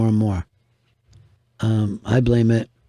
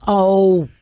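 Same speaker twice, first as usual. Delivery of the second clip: crowd gasp; 7 semitones higher, 4 dB louder than usual. Retold or imitated. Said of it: "the whole entire room goes".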